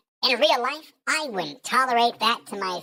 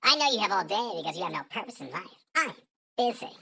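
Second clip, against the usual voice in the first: put-on baby voice; faster than usual. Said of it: "the baby voice".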